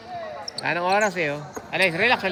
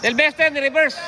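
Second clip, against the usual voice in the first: excited shout; 2 semitones higher than usual. Real, not acted. Play-by-play excitement on a reverse.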